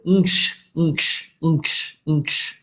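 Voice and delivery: NKSH as one isolated blended noise; nasal NG running straight into SH; consonant cluster. Shown as a demonstration. Teacher showing a cluster to students, blended NKSH demo. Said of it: "example of a consonant cluster".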